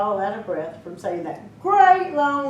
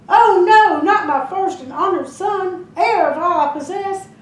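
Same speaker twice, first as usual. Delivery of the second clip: high, loud shocked cry; alarmed cry; 8 semitones higher, 6 dB louder than usual. Acted. Mother cries out in alarm for her first son. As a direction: gasp out in horror.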